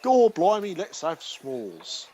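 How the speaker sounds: jokey mock Boston accent; a hammy Boston accent, slowing down. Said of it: "That's my Boston accent".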